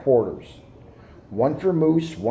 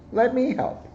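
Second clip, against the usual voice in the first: lightly voiced tiger, pitched up; high tiger voice; 9 semitones higher, 3 dB quieter than usual. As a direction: offer help in a perky high voice. Tiger voiced in picture book.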